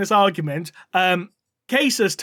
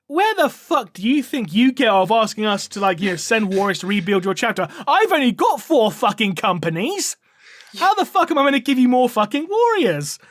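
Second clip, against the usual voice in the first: mock rant; 3 semitones higher than usual. Seth refusing Dante's request for warriors, building mock rant. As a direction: rage at the cheek of the request. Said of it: "loses his shit".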